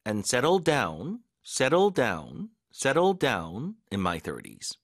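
very slow, stress on settled; drill repetition. Shown as a demonstration. Teacher drilling the phrase with stress on settled. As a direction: lean on settled each time, slowly. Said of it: "자".

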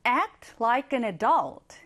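very slow, clear voiced read; slow voiced example. Shown as a demonstration. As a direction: read it aloud word by word. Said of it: "하나 더 볼게요".

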